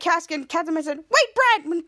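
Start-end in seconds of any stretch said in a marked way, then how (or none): 1.0-1.7 calling out. Acted. Catwoman calls after Brad.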